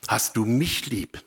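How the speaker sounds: "mich" given the weight in the question; stress on "mich". Shown as a demonstration. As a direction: lean on "mich", the rest lighter. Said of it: "die Betonung ist".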